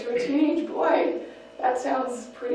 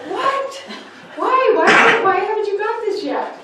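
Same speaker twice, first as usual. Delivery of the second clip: much higher and louder, incredulous; exasperated disbelief; 8 semitones higher, 9 dB louder than usual. Acted. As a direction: cry out in frustrated disbelief at the child. Parent exasperated at teen.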